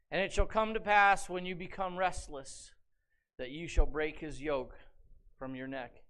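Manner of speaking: measured, solemn reading; scripture reading. Acted. Preacher reading the second blessing to the congregation, solemn.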